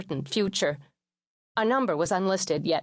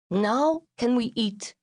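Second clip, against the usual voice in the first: impatient mother; 5 semitones higher, slower than usual. Retold or imitated. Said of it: "my mother said".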